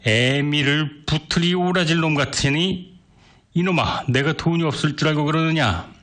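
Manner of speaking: flaring up angrily. Acted. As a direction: blow up at the boy. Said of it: "화를 버럭내며".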